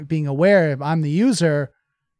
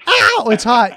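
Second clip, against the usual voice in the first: burnt fingertips; 8 semitones higher, 8 dB louder, slower than usual. Retold or imitated. Child touches hot stove.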